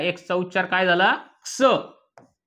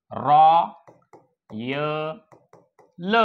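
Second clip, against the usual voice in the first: syllable by syllable; 2 semitones lower, much slower than usual. Shown as a demonstration. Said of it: "या य चा उच्चार काय झाला".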